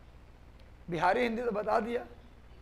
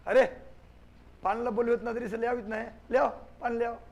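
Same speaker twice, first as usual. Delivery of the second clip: rough Magahi. Shown as a demonstration. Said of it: "इसको कहे मगही".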